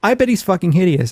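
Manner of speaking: ordinary talk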